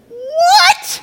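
high squeaky yelp of disbelief, laughing; stunned high-pitched what; shocked disbelief. Acted. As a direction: gasp it out, completely thrown. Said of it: "And he's like".

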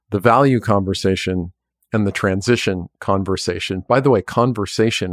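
talking with a mouth full of goop; words pushed around food in the mouth. Real, not acted. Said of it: "hard word to say with this stuff in my mouth".

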